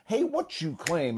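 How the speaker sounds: high-pitched "Hey, what you claim" on the beat; rhythmic game call. Shown as a demonstration. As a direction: toss out "claim" as if snapping along. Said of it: "And we're all snapping".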